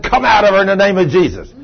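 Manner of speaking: exorcist's firm commanding call. Retold or imitated. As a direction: cast it out with authority. Casting out demon.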